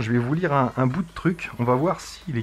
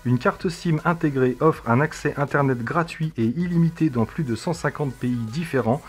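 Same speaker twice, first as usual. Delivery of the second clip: reading a text aloud; 2 semitones higher than usual. Acted. Reads a text to the device.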